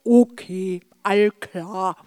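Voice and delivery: talking with chocolate bread in mouth; mouth full. Acted. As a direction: mumble around a bite of food. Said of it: "sagte ich mit Schokobrot im Mund".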